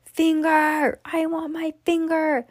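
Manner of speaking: high wailing mummy voice. Acted. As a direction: moan it like a hungry ghost. Mummy demands.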